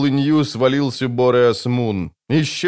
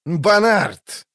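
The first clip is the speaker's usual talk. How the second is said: high calling shout; raised shout of a name; yelling; 7 semitones higher than usual. Acted. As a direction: call out into the fog. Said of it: "заорал в туман Скеллен".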